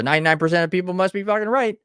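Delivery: mock the crowd's logic; sarcastic. Sarcastic take on the majority.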